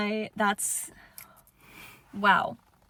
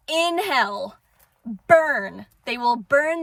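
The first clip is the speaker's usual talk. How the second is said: angry outburst; 2 semitones higher, 4 dB louder than usual. Real, not acted. Cursing abusers, vowing they'll burn.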